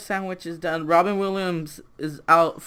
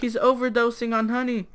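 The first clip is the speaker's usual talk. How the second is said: high, drawn-up panicky answer; mock alarm; 6 semitones higher than usual. Robin Williams explaining Pooh's choking, alarmed. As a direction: announce it in comic distress, pitch raised.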